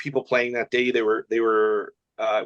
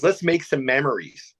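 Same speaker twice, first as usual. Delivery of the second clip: slow imitation of a Jamaican accent; lightly put-on Jamaican lilt; 3 semitones higher than usual. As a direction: mimic the caddy's Jamaican catchphrase, unhurried. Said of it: "but he had a Jamaican accent".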